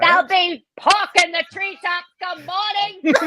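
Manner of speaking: lightly hammed-up stage line; dramatic line reading. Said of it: "it is, uh, Eleanor".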